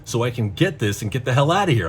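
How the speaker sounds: ordinary delivery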